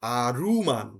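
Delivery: আরুমান with a full clear u; Korean pronunciation. Shown as a demonstration. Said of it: "তখন ওরা এটা বলবে". (উ দিয়ে আরুমান)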